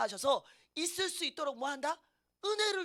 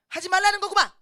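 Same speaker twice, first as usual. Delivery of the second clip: much higher, loud "aha" cry; exclaimed realisation; 8 semitones higher, 13 dB louder, faster than usual. Acted. Believer realising God says no. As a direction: burst out with the obvious answer.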